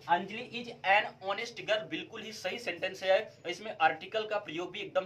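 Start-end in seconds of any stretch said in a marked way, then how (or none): 0.1-1.9 slow careful reading. Shown as a demonstration. Teacher reading the correct sentence very slowly to students. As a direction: read each word very slowly and clearly. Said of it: "बिल्कुल सही है".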